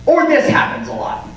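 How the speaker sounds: ordinary talk, nothing marked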